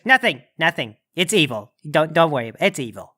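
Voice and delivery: low, lightly voiced demon parent; Krampus Senior. Krampus father shields his child, low and dismissive. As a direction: dismiss it in a lowering voice. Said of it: "Krampus Senior says".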